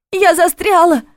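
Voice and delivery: high, loud, near tears; tearful cry. A narrator's reading. Stuck girl cries to Vojtech, loud and tearful. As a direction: cry it out, close to sobbing. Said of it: "в её голосе явно слышались слёзы".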